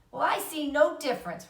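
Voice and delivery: put-on high, loud outraged child; indignant protest. A narrator's reading. Fern to her father, high indignant protest. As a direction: declare the injustice fiercely.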